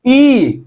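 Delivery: drawn-out ई vowel; stretched ई sound; long ई. Shown as a demonstration. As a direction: hold the ई long. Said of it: "इससे ज्यादा समय लग रहा है".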